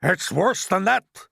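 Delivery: high, loud, slow cry; alarmed cry. A narrator's reading. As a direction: cry it out with dread. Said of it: "cried the chief of police".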